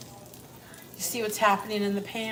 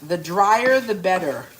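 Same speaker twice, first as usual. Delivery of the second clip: louder and punchy, stressing "drier"; "drier" hit louder and rising, "better" falling; for the people in the back; 5 dB louder than usual. Shown as a demonstration. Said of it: "for the people in the back".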